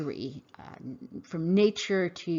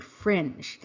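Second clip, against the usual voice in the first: "fringe" said alone, firmly, falling; emphasized fringe. Real, not acted. Repeating the key word "fringe" to listeners, emphasized. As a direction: set "fringe" apart and press it down. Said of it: "Let me emphasize that word".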